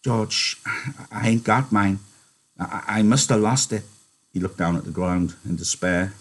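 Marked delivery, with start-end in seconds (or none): 0.0-3.8 gentle, hesitant stammer. Acted. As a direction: confess gently, faltering over the words. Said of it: "He said gently".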